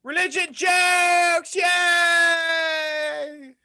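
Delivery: high, drawn-out mock cheer; the speaker cheering. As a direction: call out like an exaggerated English fan. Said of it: "she is part English".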